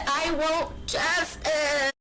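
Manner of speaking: very slow, drawn-out I want justice; lightly voiced monster, slowed right down. Shown as a demonstration. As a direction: stretch every word like a monster. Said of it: "my monster voice".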